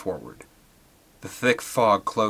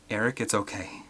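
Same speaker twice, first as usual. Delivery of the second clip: soft gentle reassurance; calm the child; reassuring; 6 dB quieter than usual. Acted. Amanda softly reassuring her son Eric.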